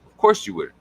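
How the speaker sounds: high mocking of course you would; sarcastic. Real, not acted. Mocking viewers who eat rocks, high and sarcastic. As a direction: toss it off with mock sarcasm. Sarcastic answer to own question.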